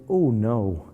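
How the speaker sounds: lilting Welsh "oh no"; imitated Welsh accent. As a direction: say it with a Welsh accent, falling away in dismay. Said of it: "in the most beautiful Welsh accent".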